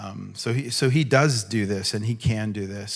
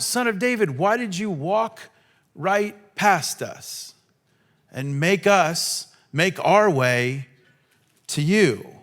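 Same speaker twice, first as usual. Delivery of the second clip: mock complaint; 5 semitones higher than usual.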